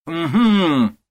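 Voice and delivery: sharp, high, loud exclamation; mother-in-law cries out pointing at the suitcases; sudden cry. A narrator's reading. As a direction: burst out in triumph. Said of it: "вдруг кричит фрау Пиннеберг".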